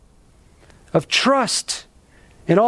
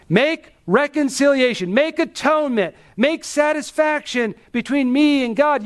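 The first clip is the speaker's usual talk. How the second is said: higher-pitched, earnest plea; pleading; 6 semitones higher than usual. Acted. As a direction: implore God on your own behalf. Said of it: "pleading with God".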